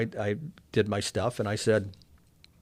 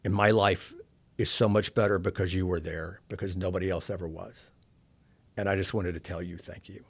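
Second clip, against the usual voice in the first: choked up; 2 semitones lower than usual. Real, not acted. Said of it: "I'm gonna get choked up".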